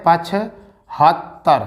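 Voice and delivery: each syllable slowly drawn out; slow dictation. Shown as a demonstration. Teacher dictating numbers to students, slow and drawn out. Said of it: "क्या कहते हैं?".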